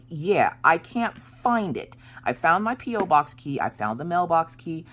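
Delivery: high-pitched retold complaint; exasperated distress. Wife reporting the missing key to husband, exasperated distress.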